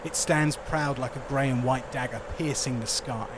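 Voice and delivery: measured storyteller narration; game master's scene setting. Acted. Game master describing the snowy resort to players, scene-setting narration. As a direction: paint the scene in a steady, deliberate narrating voice.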